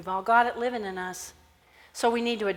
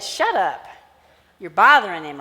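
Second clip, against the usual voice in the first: stern shushing; 2 semitones lower, 7 dB louder than usual. Acted. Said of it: "They said".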